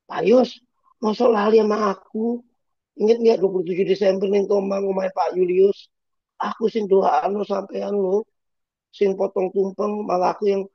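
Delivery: high put-on voice pleading to be remembered; chasing him down, reminding him who you are; pushy Javanese congregant. Congregant pleads with Pastor Yos in the car park, high and insistent. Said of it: "Pastor Yos masih teriak".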